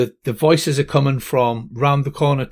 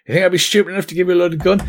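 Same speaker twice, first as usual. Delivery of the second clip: quick, higher cocky taunt; smug hero taunt; 5 semitones higher, much faster than usual. Acted. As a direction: rattle it off fast and pleased with yourself. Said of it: "McLean's like".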